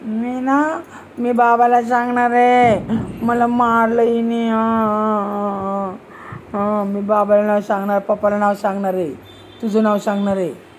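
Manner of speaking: low, droning fake sob; mock crying. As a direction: whine it out like a sulking child, half-hearted. Adult mimics child's crying threat to tell.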